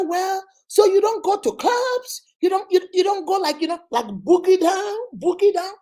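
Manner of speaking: hammed-up high American accent; mock American accent. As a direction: tease with a fake American voice. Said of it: "You want to show us America".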